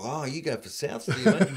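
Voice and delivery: soft, offhand imitation of a bogan; casual small talk. Bogan guy chatting while waiting for plane door, offhand. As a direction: toss it out quietly, like idle chat. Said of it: "just making, you know, that small talk".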